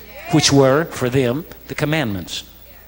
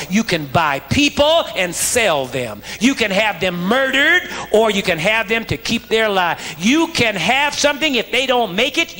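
وعظ; 7 semitones higher than usual. Real, not acted. Preaches with rising pitch.

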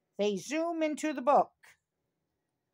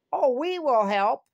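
eager agreement; 5 dB louder than usual. Acted. Friends finally agree to help.

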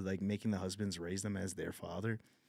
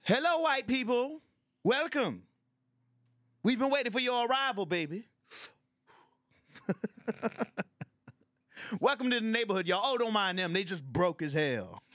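put-on old hood villain; 12 semitones higher, 5 dB louder than usual. Old villain welcoming white newcomers, high and loud. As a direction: roll out a sly welcome like a neighborhood schemer.

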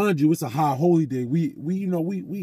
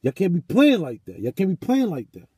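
higher-pitched, insistent telling-off, repeated for force; serious scolding; 4 semitones higher than usual. Retold or imitated. Brother scolding the pranksters for playing, serious. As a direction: retell an upset brother's rebuke. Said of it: "He was serious".

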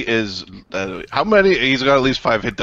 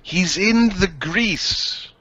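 raised, sing-out delivery; called out; 4 semitones higher than usual. Acted. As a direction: announce it in a higher voice. Same phrase first called out.

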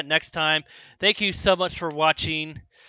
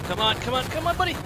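rising, much higher pleading; dad stuck in traffic; 8 semitones higher, faster than usual. Real, not acted. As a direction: urge it on in exasperation. Urging during boss fight.

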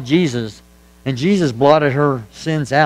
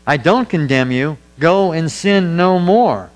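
earnest, slowing down on go and sin no more; firm sincere pardon; slower than usual. Retold or imitated. Preacher quotes Jesus to the woman, slow firm sincerity. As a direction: grant mercy but lay down the line. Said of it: "He said".

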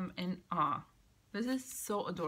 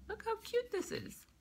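squealed repeat; 13 semitones higher than usual. Real, not acted. Repeat pitched way up.

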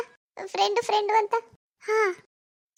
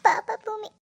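crying. Acted. Grieving wife answers husband's comfort.

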